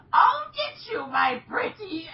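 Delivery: very high, loud cackling taunt; hammed-up wicked witch threat; mock villain shout. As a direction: holler it shrilly at the TV. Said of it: "shouting at my T V".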